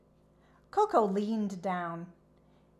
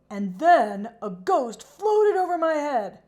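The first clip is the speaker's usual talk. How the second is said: high, loud frightened voice; scared horse, higher and louder; spooked telling; 7 semitones higher, 11 dB louder than usual. A narrator's reading. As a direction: tell it still shaken by the ghost. Scared horse tells of ghost.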